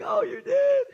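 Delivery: high, squeaky fake delight; mock surprise. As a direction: overdo the sweet surprise. Dad's reply to daughter.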